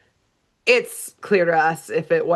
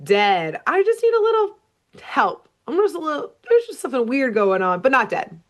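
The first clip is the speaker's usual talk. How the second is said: lightly voiced, protesting then trailing into reassurance; pleading duck; 5 semitones higher than usual. Duck tells screaming family he is not dead, pleading. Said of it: "But D W is like".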